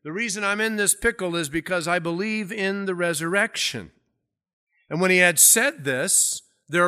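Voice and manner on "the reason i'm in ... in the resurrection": higher-pitched retold declaration; calling out. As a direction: mildly proclaim it as if to a council. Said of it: "So he calls out".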